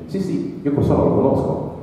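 a high, lightly put-on voice of a stranger; villager who knows him. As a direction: pipe up high as someone back in Africa recognizing the name. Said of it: "qualcuno che sta lì mi dice". (un abitante africano che riconosce il nome di Joe, voce alta e lievemente imitata)

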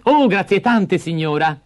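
put-on high, eager little boy; a bright grateful child thanking her; child's voice. Hansel thanks the old woman, high and eager.

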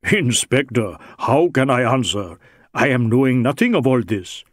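lightly voiced Indian suspect, pleading ignorance; a hint of a wily, deferential Sikh; protesting Sikh suspect. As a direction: protest your innocence to the inspector.

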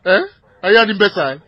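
loud, furious yelling at the dispatcher; furious shouting. Acted. Armed husband screaming at the dispatcher about his wife, furious shout. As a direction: bellow the accusations in a rage.

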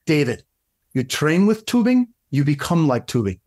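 lightly imitated Russian accent; Igor's Russian accent. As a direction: play a Russian mentor handing down a maxim. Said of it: "I'm trying with a Russian accent".

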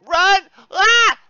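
high, loud shout into a scream; panicked yell. Real, not acted. Panicked yell during game fight.

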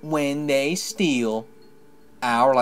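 very slow, swooping spirit voice; spirit of twilight. Acted. Game player voicing the spirit explaining dark insects, very slow quavering intonation. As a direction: drag out each phrase like an ancient, fading spirit.

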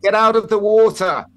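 loud, high announcement over a loudspeaker; tannoy call. Retold or imitated. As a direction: bellow it down from the helicopter. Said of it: "someone's on a tannoy thing and says".

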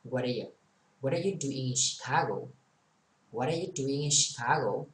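"What are you" run together, the "are" reduced to a weak sound; linked pronunciation. Shown as a demonstration. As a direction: link "What are you" as one unit, barely sounding "are". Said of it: "Bạn không nghe người ta đọc chữ A".

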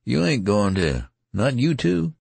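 rising, frightened disbelief; alarmed plea. Acted. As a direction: pitch climbing high in panic. Youth fears friend dying.

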